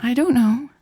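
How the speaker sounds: evasive. A narrator's reading. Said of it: "in that tone she used when she did know but was afraid".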